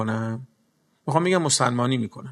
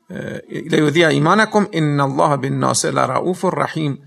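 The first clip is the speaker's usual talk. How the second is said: Quran recitation. Acted. Preacher to congregation, measured Quran recitation. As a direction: chant the Arabic verse in a steady recital tone.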